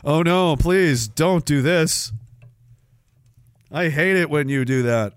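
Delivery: slow, drawn-out mock plea; mock pleading. Streamer pleads with chat to stop, hammed up. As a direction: beg with exaggerated dismay.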